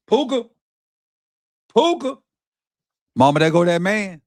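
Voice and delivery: high, loud play-by-play hype; excited cheer. Real, not acted. Football streamer to viewers after a big catch, excited cheer.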